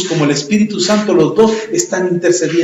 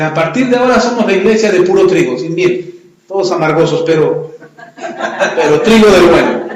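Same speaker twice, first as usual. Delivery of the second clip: joking announcement; 2 semitones higher than usual. Acted. Pastor jokingly renaming church.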